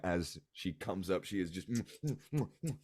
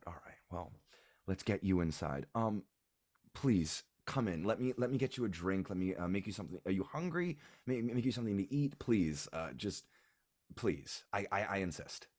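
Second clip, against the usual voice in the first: hospitable mother. Acted. Mother hosts guests.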